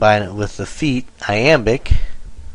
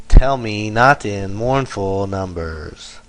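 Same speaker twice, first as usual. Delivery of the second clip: measured beat on "Tell", "not", "mourn", "num"; trochaic stress. Shown as a demonstration. Teacher reading trochaic tetrameter example, stressing "Tell" and "not". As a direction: stress first of each pair, starting on "Tell". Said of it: "and it's stressed, unstressed".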